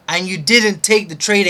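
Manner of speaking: loud, rising stress on "take"; angry accusation. Real, not acted. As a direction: accuse yourself, leaning on "take". Repeating the accusation.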